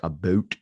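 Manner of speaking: "about" with a rounded oh vowel, like "a-boat"; mock-Canadian "about", rhyming with boat; Canadian "aboat". Shown as a demonstration. Imitating Canadian friends, "about" said as "a-boat". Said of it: "whenever they say words about".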